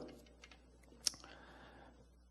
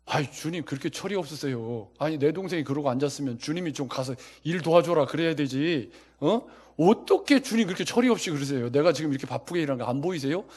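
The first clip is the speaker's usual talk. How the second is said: 따지는 마르다; 4 dB louder than usual. Acted. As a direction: complain to the Lord as an exasperated Martha. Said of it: "왜 주님께 화를 내죠". (주님께 화내며 따지는 말투)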